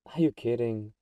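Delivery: incredulous outburst. Acted. Vampire reacting to hunter's question.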